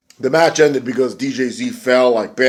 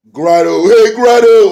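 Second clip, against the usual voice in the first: much higher and louder mock call; imitating the Pope; 10 semitones higher, 9 dB louder, slower than usual. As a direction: yell the name like a ringside commentator. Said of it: "that's the Pope, uh, calling him Grotto".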